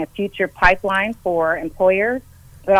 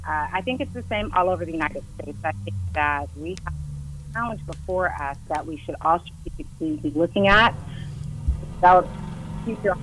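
phone signal cutting out; fading in and out; 6 dB quieter than usual. Real, not acted. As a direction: voice dropping away on a bad line. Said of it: "You're fading in and out".

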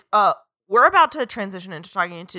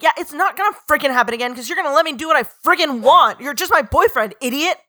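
mock angry Bella; 5 semitones higher, 4 dB louder than usual. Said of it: "And Bella's like".

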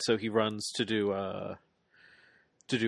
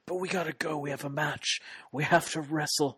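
playing the victim; 6 semitones higher than usual. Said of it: "playing up the victims so hard".

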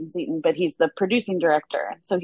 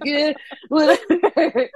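mock casual actor; 8 semitones higher, 4 dB louder, slower than usual. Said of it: "And he's like".

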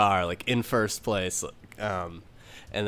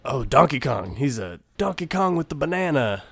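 John Mulaney as Toad; 6 semitones higher, 3 dB louder than usual. Acted. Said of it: "John Mulaney Toad can be, uh, like".

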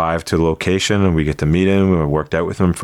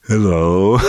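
one Schwarzenegger hello after a breath; Austrian-accented hello in Arnold's voice; Arnold impression. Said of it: "I can talk exactly like him".

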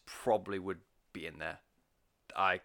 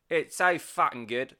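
put-on a sudden, slower Australian accent on the praise; slipped into Australian; 5 semitones higher, 6 dB louder than usual. Gushing reviewer raving about the album, in a brief Australian accent. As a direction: drop into a light Aussie accent, louder and drawn out. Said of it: "Don't know why I went Australian".

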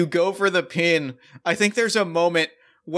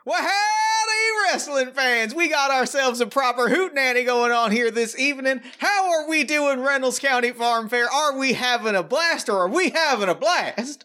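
put-on cowboy accent; 8 semitones higher than usual. Promoter Tex greeting the farm fair crowd in a high cowboy accent. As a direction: greet the crowd like a hammy country ring announcer. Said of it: "immediately the accent turns on".

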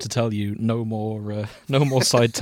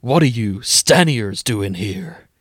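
slower, still American-tinged retake of the angry shout; redone angry line; 4 dB louder, slower than usual. Acted. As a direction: drag it out, a toned-down American take. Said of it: "he shouted angrily at them".

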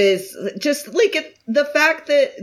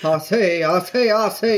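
Southern drawl. Pretend. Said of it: "a very sweet Southern drawl".

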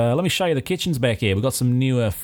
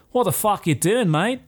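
higher-pitched outraged shopkeeper; angry barista; 6 semitones higher than usual. Acted. Café owner catching a barbarian at his machine, higher outraged voice. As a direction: scold him like an indignant café owner. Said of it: "He's like".

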